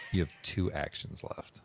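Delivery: ordinary talk, nothing marked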